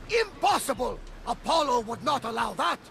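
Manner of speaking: outraged shout. Acted. Captain outraged at Oracle news.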